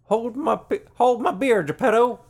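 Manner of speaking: loud, high dumb bro voice; frat bro voice. Pretend. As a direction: bellow it like a drunk frat guy. Voicing a frat bro doll.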